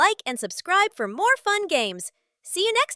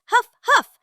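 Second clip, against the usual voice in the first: bison huffing; 5 semitones higher, 6 dB louder than usual. Acted. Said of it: "The bison says".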